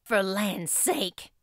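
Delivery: slow, startled gasp; gasped exclamation. Acted. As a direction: gasp it out in shock. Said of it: "gasped Marilla".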